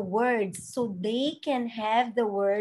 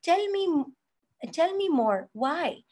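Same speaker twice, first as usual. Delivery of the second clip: gentle apology. Shown as a demonstration. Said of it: "you can say".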